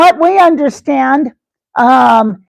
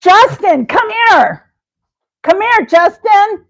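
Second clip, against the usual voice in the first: calling out; 6 semitones higher than usual. Acted. Calling out to Justin in skit.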